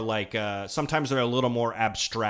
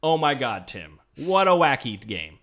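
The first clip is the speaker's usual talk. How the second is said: hyped-up, fast sales pitch; fake excitement; 3 semitones higher, 4 dB louder than usual. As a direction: gush like a superfan. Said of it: "I'm gonna pretend I am with the passion".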